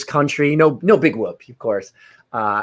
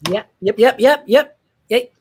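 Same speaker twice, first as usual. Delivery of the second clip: eager; 3 dB louder than usual. Acted. Eager answer to being called.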